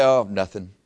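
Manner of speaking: low, softly dismissive brush-off; mock-innocent cover-up; evasive. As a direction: play it down, low and casual. Evasive answer when caught daydreaming.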